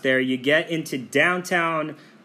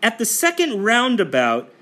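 lightly imitated navigation voice, higher pitched; GPS assistant voice; 6 semitones higher, slower than usual. Traveler mimicking the GPS in Iceland, mock navigation voice. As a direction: read out mangled foreign street names like a GPS. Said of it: "whether it's Siri or Alexa, they would come on and say".

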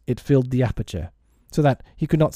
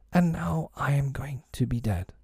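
hushed fairy confession; soft dying voice; 3 semitones higher, 8 dB quieter than usual. A narrator's reading. Dying fairy to Peter, soft hushed voice. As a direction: say it softly, barely projected. Fairy tells of her coming death.

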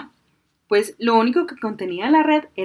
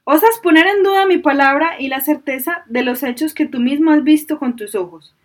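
angry genie; 6 semitones higher, 8 dB louder than usual. A narrator's reading. Genie furious at fisherman.

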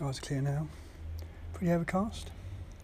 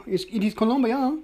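put-on Colombia said with a playful, higher Colombian accent; 6 semitones higher than usual. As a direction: roll out Colombia the Colombian way, tongue in cheek. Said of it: "that's my Colombian accent".

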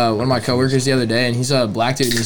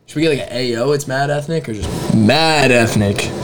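usual speaking voice

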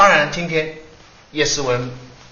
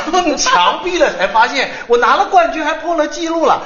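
laughing while telling; 12 semitones higher than usual. Retold or imitated. Retelling how she won the race, laughing high. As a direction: laugh through the punchline of the story. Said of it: "他说".

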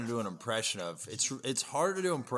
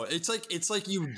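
ordinary talk

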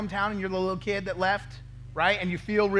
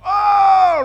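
hoped-for oh; 13 semitones higher, 18 dB louder than usual. Retold or imitated. Hoped-for realisation.

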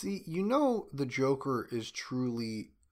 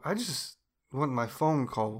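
Will Smith impression. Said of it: "I can't do a Will Smith impression".

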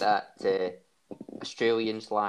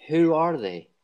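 who are they called out higher and louder; quizmaster punch; 6 semitones higher, 5 dB louder, slower than usual. Real, not acted. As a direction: fire the question at the contestants. Quizmaster poses the question.

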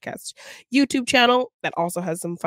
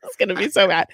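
laughing; 5 dB louder, faster than usual. Real, not acted. Laughing before attempt.

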